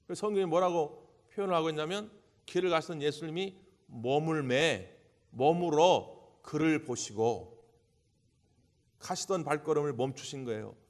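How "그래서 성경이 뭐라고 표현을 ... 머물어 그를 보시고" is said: ordinary talk, nothing marked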